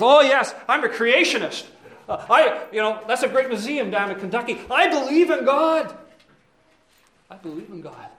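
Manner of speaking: eager, high smooth-talking devil; smug devil. Pretend. Devil answering the brothers, eager and smug. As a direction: play the devil selling himself.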